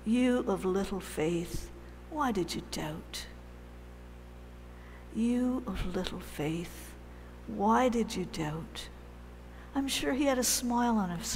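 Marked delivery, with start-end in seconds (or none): 0.0-3.3 gentle rebuke. Shown as a demonstration. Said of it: "I can't do it properly". 5.1-8.9 soft, loving rebuke. Shown as a demonstration. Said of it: "I can't do it properly".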